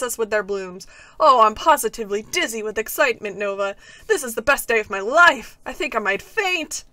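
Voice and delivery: giddy, grand and breathless; overexcited character voice. Acted. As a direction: gush like it's the best day ever. Overexcited character reads quest lines.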